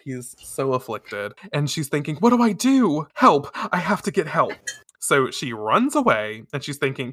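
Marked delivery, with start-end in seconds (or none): 2.1-4.5 higher, dramatized panicky thoughts; acted panic. Luna needing help for fallen Kakeru, acted panic. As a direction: fret aloud in mock alarm.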